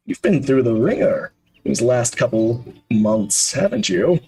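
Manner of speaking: lightly voiced genial host, sympathetic; a hint of a knowing old gentleman; kindly older man. Kindly man greeting a weary visitor, lightly acted sympathy.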